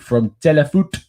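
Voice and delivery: playful stab at a French accent. Shown as a demonstration. Host signs off a French report, in a French accent. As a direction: read the channel name in hammy French. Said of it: "in my amazing French accent".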